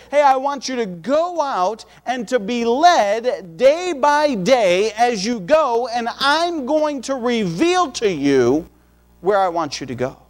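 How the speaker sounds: slow, deliberate divine voice, drawn out; voice of God. Acted. God calling Abraham to go, slow and solemn. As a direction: speak as God calling, measured and unhurried.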